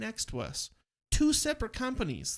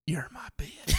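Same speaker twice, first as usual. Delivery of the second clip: voiced snake; 2 semitones lower than usual. Voicing the snake's thoughts.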